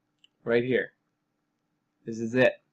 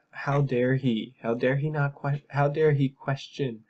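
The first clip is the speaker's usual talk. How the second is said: whiny mock indignation; 3 semitones higher, 3 dB louder than usual. Host mocking an article defending the CIA, whiny and indignant. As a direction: play up the article's affronted whine. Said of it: "it's just this whiny article".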